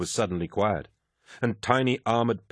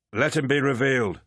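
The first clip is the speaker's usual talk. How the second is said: hidden lodge master voice; 6 semitones higher than usual. Acted.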